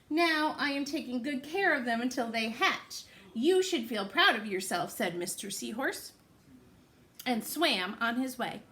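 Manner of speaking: lively, sing-song storybook reading; picture-book read-aloud voice; reading to children. Acted. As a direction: read it to little ones with big rises.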